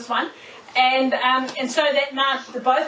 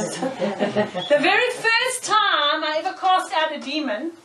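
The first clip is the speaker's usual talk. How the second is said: slow, clear repeat with a small laugh; patient slow repeat after being asked; slower repeat for the listener; slower than usual. Real, not acted. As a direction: say it again slowly so they catch it.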